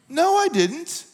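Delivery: laughing as he admits he took it badly; laughing denial. Real, not acted. Preacher to the congregation, laughing at his own bad reaction. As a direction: laugh through a quick high no.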